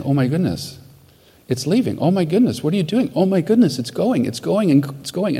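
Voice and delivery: mildly excited retold astonishment, pitch lifting midway; retold amazed excitement. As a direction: imitate a woman amazed at sudden relief. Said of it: "They're so excited".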